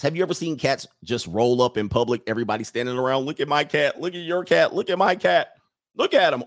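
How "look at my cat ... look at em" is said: mock excited onlookers. Acting excited onlookers at cats.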